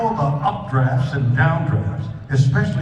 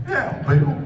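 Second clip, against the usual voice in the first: a botched Australian accent that slides into a Southern drawl; failed Australian accent; 5 semitones higher than usual. Shown as a demonstration. Bill tries an Australian accent for the audience, botched. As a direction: try an Australian accent and miss. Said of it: "No, that's Southern".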